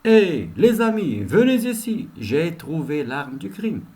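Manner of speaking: repeated call to colleagues, fading at the end; calling out again. Shown as a demonstration. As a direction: shout the first words, then settle down. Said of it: "Ça, à titre d'exemple".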